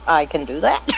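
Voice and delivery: playfully thickened Southern accent. Shown as a demonstration. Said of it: "put on a little bit more of a Southern accent".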